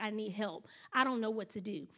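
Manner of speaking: soft, understated retold plea; subdued, helpless confiding; mild-mannered. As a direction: act out a mild woman quietly asking for help. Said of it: "she's very mild-mannered".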